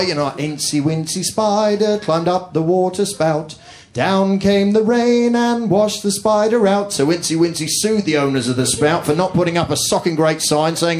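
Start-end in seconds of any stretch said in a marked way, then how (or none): 0.4-6.9 put-on slow sing-song reading to a child; nursery rhyme reading. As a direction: read it out slowly like a bedtime rhyme. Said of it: "read stuff to my little boy".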